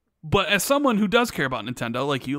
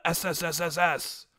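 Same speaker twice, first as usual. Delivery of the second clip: drawn-out s like a snake; 4 dB quieter than usual. Retold or imitated. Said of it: "That's a lot of S's".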